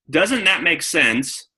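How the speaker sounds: "Doesn't that make sense?" said very slowly, each word laid out; unhurried, reasoned "Doesn't that make sense?"; slow logical question. Shown as a demonstration. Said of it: "is left brain".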